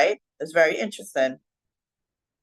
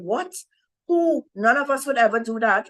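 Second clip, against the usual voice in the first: retold shocked disbelief, pitch jumping high on Who; exclaiming; 5 semitones higher than usual. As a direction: disciples protesting in surprise.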